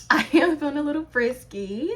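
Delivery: teasing announcement, rising at the end; playful. Acted. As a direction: say it cheekily, lifting up on frisky. Repeats the line more playfully.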